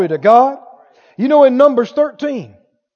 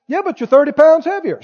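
quick, higher-pitched mock objection; lightly acted fast-talking naysayer; nagging doubter; 5 semitones higher, faster than usual. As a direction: pile on with another yes-but. Acted doubter heckling the victor.

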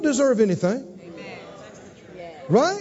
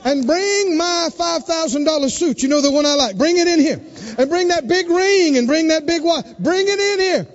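joyful father; 4 semitones higher than usual. Acted. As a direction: call out for the feast in delight. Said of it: "And the father said".

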